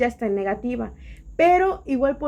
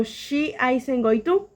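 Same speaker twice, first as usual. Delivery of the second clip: slow English example; much slower than usual. Shown as a demonstration.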